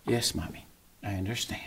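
very soft, low submission; retold quiet obedient reply; meek child. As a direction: imitate a chastened kid agreeing. Voicing chastened daughter answering mother.

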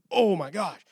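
a startled ruler's exclamation; alarmed king. Retold or imitated. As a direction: react like a king hit by bad news. The king hearing the warning.

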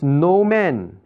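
"No man" drawn out with firm weight; emphasis on NO MAN. Shown as a demonstration. Teacher reading the verse to students, emphatic NO MAN. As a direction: press hard on "No man". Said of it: "can you see the emphasis".

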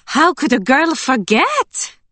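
put-on eager farm girl, relieved and chatty; bubbly young woman. A narrator's reading. Emily voiced by narrator.

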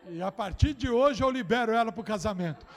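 crowd-pleasing loud announcement; excited shout. Real, not acted. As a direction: release her to marry with a triumphant cry. Pastor releases daughter to marry.

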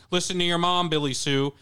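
half-hearted shout into a phone; mild mock shout. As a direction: imitate shouting down the line, toned down. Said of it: "shouting into the phone to Billy Sue".

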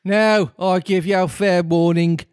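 high-pitched Brummie Queen; shouting Queen. A narrator's reading. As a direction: issue a warning in a Brummie accent. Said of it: "shouted the Queen".

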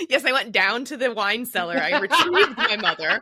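laughing. Real, not acted. Laughing about the fake call.

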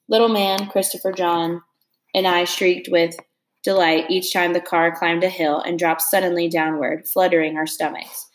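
steady read-aloud narration for a class; story reading. A narrator's reading. Teacher reading a novel chapter to her class, steady narration.

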